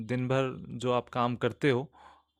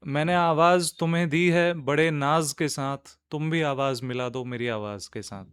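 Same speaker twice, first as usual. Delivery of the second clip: measured couplet, falling away in the second line; poetry recitation. Acted. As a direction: recite it as an Urdu sher.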